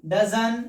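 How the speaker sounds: "dozen" for does not, final t dropped; contracted pronunciation. Shown as a demonstration. Teacher showing the short spoken form, contracted pronunciation. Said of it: "इसका negative हो जाएगा dozen".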